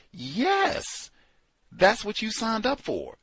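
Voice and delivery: high mocking yes; a sarcastic, sing-song yes.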